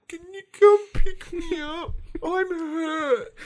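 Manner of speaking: mock crying call to wife for a lift; whiny little kid. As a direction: play the hurt baby.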